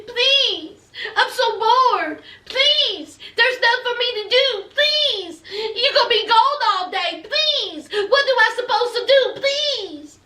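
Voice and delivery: put-on high, pleading baby-talk whine; whiny baby talk. Bored fiancée begging Mike not to leave, whiny baby talk. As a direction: beg with stretched, high-pitched pleases. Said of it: "She's doing the baby talk".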